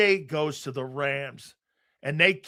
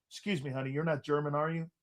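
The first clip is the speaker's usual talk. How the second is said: softer, lower imitation of aunt; aunt's discreet question; 3 semitones lower, 9 dB quieter, faster than usual. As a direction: quote the aunt in a hushed aside. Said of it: "looks over at my, my wife and goes".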